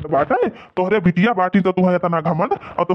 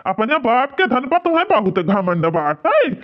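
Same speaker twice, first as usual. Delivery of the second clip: put-on raised, scornful rebuke of the old man; angry scolding; 4 semitones higher than usual. Son-in-law scolding his proud father-in-law, angry and scornful. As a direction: tell him off with contempt.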